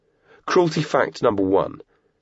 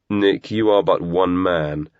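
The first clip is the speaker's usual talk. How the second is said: sneering; 3 dB louder, slower than usual. Acted. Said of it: "Viv sneered".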